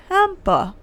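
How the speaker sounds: drawn-out high-pitched Michigan "Tampa"; exaggerated Midwestern nasal-A accent on Tampa; regional accent. Shown as a demonstration. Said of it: "I say it a little bit different".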